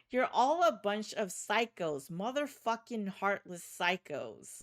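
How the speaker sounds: angry outburst. Acted. Emiliano cursing the surgeons in rage. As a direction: spit it at them.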